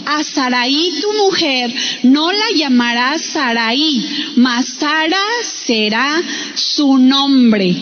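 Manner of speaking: measured, slowed Bible reading; scripture reading. Acted. Preacher reading God's words to the congregation, deliberate scripture reading. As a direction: read the verse out deliberately, with pauses.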